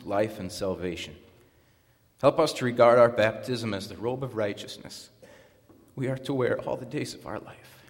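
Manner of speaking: formal read prayer in measured phrases; even liturgical cadence with pauses between petitions; congregational prayer. Acted. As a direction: lead the congregation reverently in prayer.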